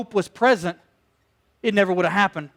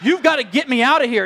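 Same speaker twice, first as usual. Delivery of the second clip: retold shout; 4 semitones higher than usual. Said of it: "But I was like".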